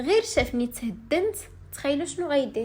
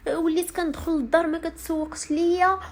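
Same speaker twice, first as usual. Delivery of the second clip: mock crying husband; 5 semitones higher than usual. Husband complaining to her father, half-mocking tearful whine. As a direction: imitate him whining through tears. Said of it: "وبدا كيبكي على با".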